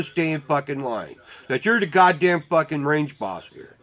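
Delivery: mock-polite suggestion turning to a dressing-down; retold exasperated telling-off, sarcastic; frustrated sarcasm. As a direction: lay into a line-jumper with sarcasm. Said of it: "their frustration's starting to fucking frustrate me".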